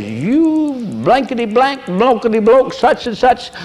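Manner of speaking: high, hammed-up cussing shout; mock the angry driver cursing; cursing stranger. Angry driver yelling at the preacher, mock furious. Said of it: "got out and says".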